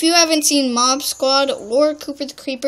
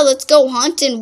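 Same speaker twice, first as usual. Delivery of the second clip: excited; 5 dB louder than usual. Real, not acted. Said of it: "It's like, yeah".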